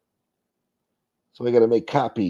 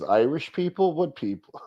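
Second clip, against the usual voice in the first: mock outraged farmer; 6 semitones higher than usual. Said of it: "Farmer says".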